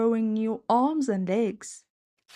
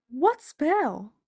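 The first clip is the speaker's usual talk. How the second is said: puzzled; 6 semitones higher than usual. Acted. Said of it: "asked Max, puzzled".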